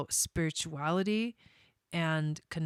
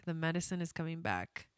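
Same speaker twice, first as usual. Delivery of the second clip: choked up; 9 dB quieter than usual. Real, not acted. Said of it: "I'm gonna cry".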